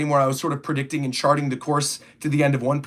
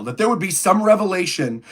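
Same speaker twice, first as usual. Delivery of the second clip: talking through hiccups. Real, not acted. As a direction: speak while hiccuping. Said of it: "I keep hiccuping".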